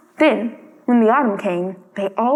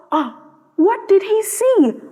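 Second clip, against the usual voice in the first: slow, high, hushed wonder; suspenseful aside; 8 semitones higher, slower than usual. A narrator's reading. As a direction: draw out the mystery. Narrator builds suspense.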